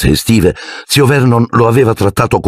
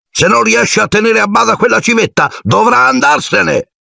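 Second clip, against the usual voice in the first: angry uncle. Acted. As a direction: lay down the law, furious. Uncle Vernon rages. (zio Vernon furioso, lento e alto)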